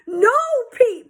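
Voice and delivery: high crying shout; tearful scream. A narrator's reading. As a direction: scream through tears. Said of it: "screamed through his tears".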